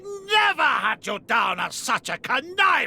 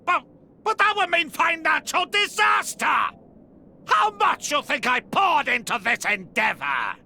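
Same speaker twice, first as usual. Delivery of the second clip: stammering, whining yell; panicked protest; 3 semitones higher than usual. Acted. Banner wailing to Rex about financial ruin. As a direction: plead in frantic alarm. Villain protests losing his fortune.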